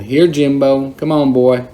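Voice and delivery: coaxing call to a monkey. Retold or imitated. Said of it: "held it out in front of me and called".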